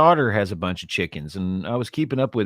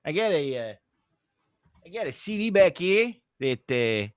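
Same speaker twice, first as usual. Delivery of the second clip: halting northern, Yooper-like Canadian accent; attempted Canadian accent. Shown as a demonstration. Explaining a CD while warming up, tentative Canadian accent. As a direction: feel around for a Canadian accent. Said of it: "trying to think of Bob and Doug".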